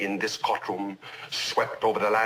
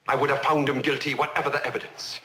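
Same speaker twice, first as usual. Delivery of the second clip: mounting confession; 5 semitones higher than usual. Acted. Judge on trial confessing a rigged verdict, mounting confession. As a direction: pitch climbing as the admission builds. Confession gathers force before interruption.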